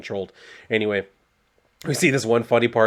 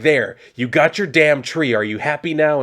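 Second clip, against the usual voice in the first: higher, louder mock telling-off; exasperated scolding; 4 semitones higher, 5 dB louder than usual. Poison Ivy to Harley as they're caught, exasperated. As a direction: act out a fed-up scolding, pitched up.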